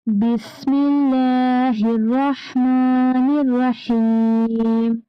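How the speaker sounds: slow, drawn-out Quran recitation. Shown as a demonstration. Teacher recites slowly for children to repeat. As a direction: chant each word slowly for the children to repeat. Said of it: "पढ़िए बच्चों".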